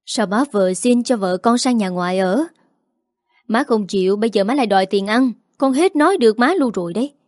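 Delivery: mildly fed up son speeding up; irritated reply. Acted. Son exasperated at his mother, rising mild irritation. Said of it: "Liêm bực dọc đáp".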